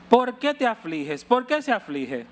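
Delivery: husband's plea. Retold or imitated. Husband questioning weeping wife.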